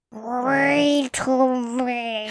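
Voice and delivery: slow, gurgling monster voice; slow gargoyle voice. Shown as a demonstration. Gargoyle voice for segment.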